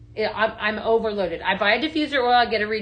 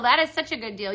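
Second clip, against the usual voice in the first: ordinary talk, nothing marked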